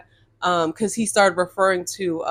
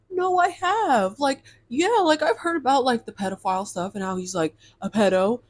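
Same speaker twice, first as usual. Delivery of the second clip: mocking his reply; 4 semitones higher than usual. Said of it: "And he's like".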